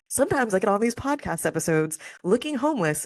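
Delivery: tearful laugh while still talking; real crying mixed with laughter; half laughing, half crying; laughing through tears. Real, not acted. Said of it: "I'm gonna cry".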